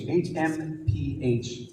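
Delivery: slow, breathy hmph of contempt; gruff harrumph. Shown as a demonstration. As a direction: huff it out like scorn. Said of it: "which is kind of a breathy sound".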